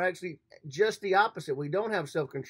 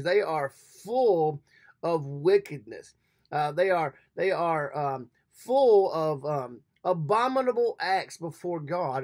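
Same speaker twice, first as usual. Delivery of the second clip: emphatic preaching; 5 dB louder, slower than usual. Real, not acted. Preacher denouncing the government.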